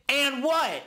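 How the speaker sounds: high, taunting "and what?"; defiant challenge. Retold or imitated. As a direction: throw the challenge back. Scarface defiant.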